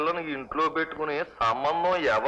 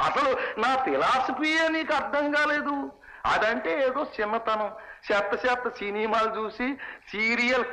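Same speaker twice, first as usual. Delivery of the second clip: higher-pitched, heated lecture to his wife; father rants at wife about their stubborn daughter, heated and raised; exasperated scolding; 4 semitones higher than usual. Acted.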